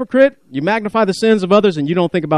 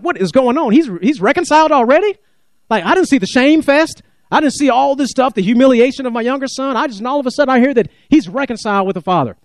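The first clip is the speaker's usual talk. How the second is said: put-on resentful older son; 6 semitones higher than usual. Preacher voices resentful older son.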